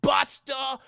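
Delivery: slow, loud announcement of the name; big reveal. Real, not acted. Telling chat who arrives, slow excited reveal. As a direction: drag the name out like a hype man. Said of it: "And who is it, chat?".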